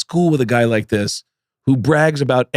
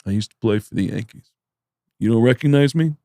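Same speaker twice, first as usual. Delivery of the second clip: Judah Friedlander; 5 semitones lower than usual. Retold or imitated. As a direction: imitate a tall-tale teller, pausing between phrases. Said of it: "And Judah goes".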